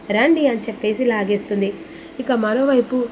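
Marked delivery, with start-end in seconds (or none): 0.1-0.5 louder, higher command to come along; a bossy summons as she drags him; insistent call. Acted. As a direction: pull him along with the word. Wife dragging husband off.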